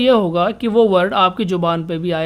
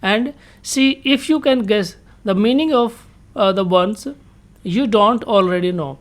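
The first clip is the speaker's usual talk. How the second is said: reads the English line very slowly, word by word; slow reading aloud; much slower than usual. Shown as a demonstration. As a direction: spell out the instruction slowly for students. Teacher reads textbook instruction aloud. (धीरे-धीरे पढ़कर सुनाना)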